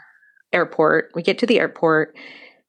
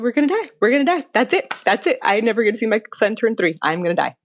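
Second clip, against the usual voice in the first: higher, rushing mock dread, settling down at the end; a touch of remembered fear; replayed panic; 4 semitones higher, faster than usual. Retelling her fear of dying before her son's birthday, mild panicky voice. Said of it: "I'm thinking".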